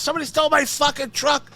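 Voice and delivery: panicked call to the cops; retold frantic emergency call. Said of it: "flipping out".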